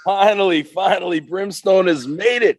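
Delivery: loud, high hyped-up wrestler; wrestler promo voice. Acted. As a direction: cut a promo like a pro wrestler. Guest's wrestler persona hype talk.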